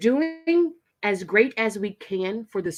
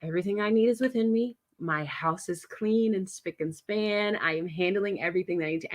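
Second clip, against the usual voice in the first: calm affirmation; 4 dB quieter than usual. Shown as a demonstration. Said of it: "And I say to myself".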